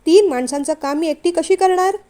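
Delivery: outspoken protest, recounted with some force; retold frank protest. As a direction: put your objection plainly, as if retelling it. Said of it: "मी त्यांना स्पष्ट सांगितलं". (स्पष्टपणे मांडलेली तक्रार)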